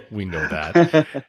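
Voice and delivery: chuckling through the words, slowly; laughing. Real, not acted. Host laughing along with his guest's joke, slow chuckling. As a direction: let a laugh carry the line.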